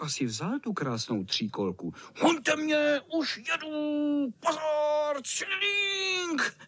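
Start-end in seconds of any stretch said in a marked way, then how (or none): 2.2-6.6 high gleeful cat voice ringing his bell; cheeky tomcat. A narrator's reading. Tomcat taunting the boys from his tricycle, cheeky. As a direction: tease them to chase you.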